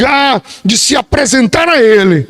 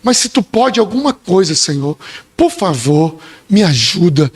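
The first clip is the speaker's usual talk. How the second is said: desperate cry. Retold or imitated. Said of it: "Só entende um clamor".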